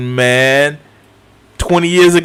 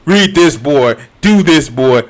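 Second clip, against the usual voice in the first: imitating Kratos; 3 semitones lower than usual. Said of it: "even Atreus got mad at that shit".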